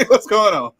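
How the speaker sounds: high, loud, laughing disbelief; laughing bafflement. Retold or imitated. Listener baffled by the coach, laughing loudly. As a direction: crack up while acting confused.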